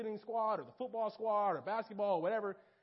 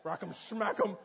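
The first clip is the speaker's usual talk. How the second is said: mock anger; 6 dB louder than usual. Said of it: "and I'm like".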